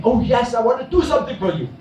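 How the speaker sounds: fast, high eager promise; a light touch of childlike eagerness; eager child. Acted. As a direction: rush out an eager yes. Eager child answers Mary.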